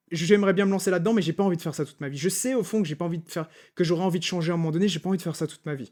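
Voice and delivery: quick, mildly fretful run of doubts; rushed worried objection. Acted. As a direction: rattle off the doubts as an imagined objector. Voices a viewer's worried objection. (objection inquiète, débitée à toute vitesse)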